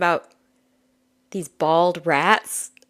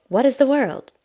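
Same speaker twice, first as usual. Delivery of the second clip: higher, wide-eyed little goat voice; curious baby goat; 6 semitones higher than usual. Acted. Little goat in the card art, higher wondering voice. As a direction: wonder at everything like a newborn kid. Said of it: "the little goat is like".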